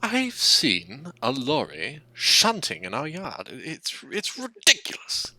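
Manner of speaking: exasperated, theatrical disbelief, pitch leaping at the end; venting. Acted. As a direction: draw it out, then burst out scandalised. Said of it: "Rheneas starts venting to Edward".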